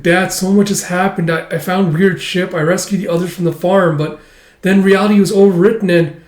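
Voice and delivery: retold earnest, high-pitched recap; acted daughter's outpouring. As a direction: spill the news to a parent. Daughter pouring out news to father.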